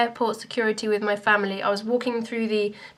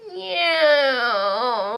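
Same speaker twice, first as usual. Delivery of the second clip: mock plane noise; 3 semitones higher than usual. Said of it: "pretend I was just being a plane".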